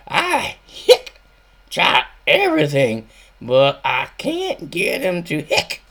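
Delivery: high, loud hiccupy hillbilly voice; Snuffy replying with hiccups. Acted. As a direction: talk through the hiccups, complaining. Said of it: "Stuffy Smith is, uh, replying".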